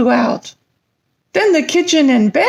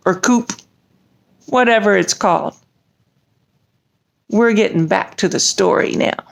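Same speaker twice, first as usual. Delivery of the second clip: low dragon voice; 9 semitones lower than usual. Acted. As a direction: speak low like a big friendly dragon.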